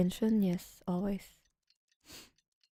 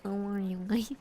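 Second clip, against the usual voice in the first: whisper; faster than usual. Shown as a demonstration.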